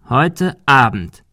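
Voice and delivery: slow, deliberate warning; drawn-out bully's order; parting threat. Acted. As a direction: stretch both words as an ultimatum.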